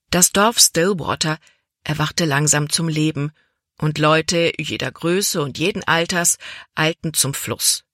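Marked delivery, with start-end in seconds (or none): none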